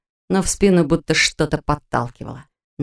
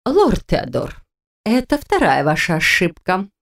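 syllable by syllable; slower than usual. Acted. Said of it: "по слогам произнесла сапфировая ведьма".

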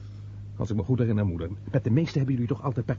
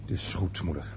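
soft, lower, giving in; barely voiced surrender; resigned murmur; 8 semitones lower, 7 dB quieter than usual. Son quietly giving in to his mother's demands.

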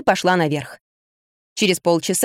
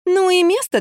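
feigned indignation; 11 semitones higher than usual. A narrator's reading. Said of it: "делано возмутилась я".

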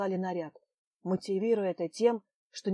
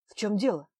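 rising to a loud cry of disbelief; a loud cry of protest; outraged shout; 3 semitones higher, 7 dB louder than usual. Acted. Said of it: "крикнул Астраханский".

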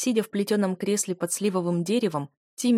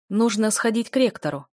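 plain reading voice

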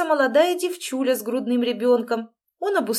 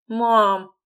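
an outraged louder protest; indignant; 7 dB louder than usual. A narrator's reading. Сын возмущается словами матери. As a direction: protest sharply at her. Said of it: "возмутился".

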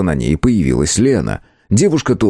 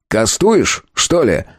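mild snap; 4 semitones higher, much slower than usual. Acted. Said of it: "прикрикнул на него Конан".

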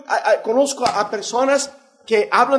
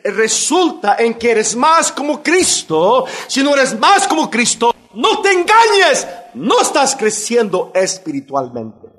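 fervent preaching; 3 semitones higher than usual. Acted. Preacher warning his congregation, fervent rising preaching. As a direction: press the warning home to the church.

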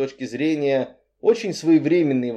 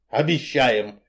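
smirking; slower than usual. Acted. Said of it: "хмыкнул тип на подоконнике".

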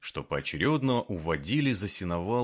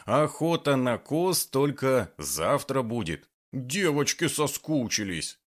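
put-on cutesy baby talk; 4 semitones higher than usual. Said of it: "просюсюкал Тимофей Сергеевич".

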